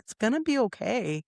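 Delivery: slightly high comforting coo; soothing. Retold or imitated. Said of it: "like, really soothing her".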